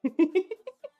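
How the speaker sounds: short rising laugh. Real, not acted. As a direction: laugh at a chat message. Streamer laughs at chat.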